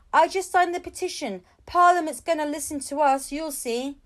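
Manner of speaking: high, loud and eager; a stranger proudly telling of the petition; eager supporter. A narrator's reading. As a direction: promise it with gusto. Enthusiastic stranger backing the petition.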